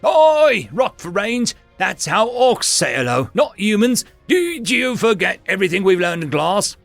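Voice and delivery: put-on thick orc accent, a loud firm scolding. Naz scolding the orc who punched, loud and firm. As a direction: put the bully in his place, loud and firm. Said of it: "spoke up loudly and firmly".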